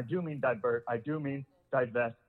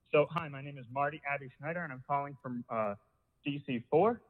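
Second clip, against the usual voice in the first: breathless, gasping between words; talking while winded; out of breath. Real, not acted. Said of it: "I'm out of breath".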